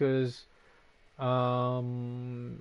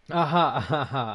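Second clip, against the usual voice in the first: laughing; 6 dB louder than usual. Real, not acted. Laughs at a chat joke.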